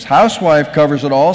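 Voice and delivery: firm, flat-out emphatic statement. Acted. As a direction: close the matter with the word Housewife. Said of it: "said the recorder emphatically".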